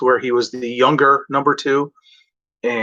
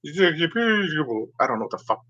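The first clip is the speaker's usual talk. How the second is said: fading road rage; 4 semitones higher, 5 dB quieter, slower than usual. Retold or imitated. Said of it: "I have to bring myself back".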